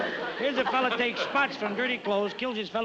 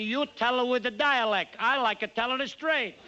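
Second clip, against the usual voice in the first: put-on Italian barber accent; 4 semitones higher than usual. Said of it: "He says to me".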